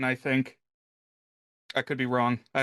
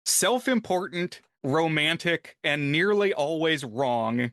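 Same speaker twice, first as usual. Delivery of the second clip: reading a quote aloud. Shown as a demonstration. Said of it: "I just wanted to share this".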